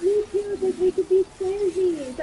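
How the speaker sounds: put-on high, drawn-out girly enthusiasm; imitated eager friend. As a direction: chime in excitedly as the friend. Friend eagerly joins in, retold.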